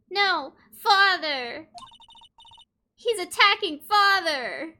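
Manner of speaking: high, loud horrified shout; alarmed child's cry. Acted. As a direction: cry out in horror for your father. Acted child witnessing attack on father.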